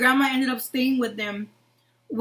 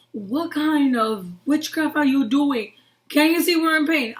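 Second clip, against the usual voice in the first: indignant protest; 3 semitones higher, 3 dB louder than usual. Retold or imitated. Injured child protesting tea and honey, indignant.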